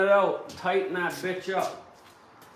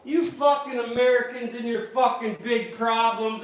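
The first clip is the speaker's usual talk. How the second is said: mock taunt; 5 semitones higher, 4 dB louder than usual. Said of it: "I was saying".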